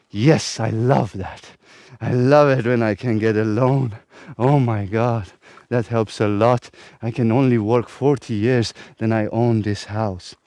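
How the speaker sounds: mocking sheep voice. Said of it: "And you're like".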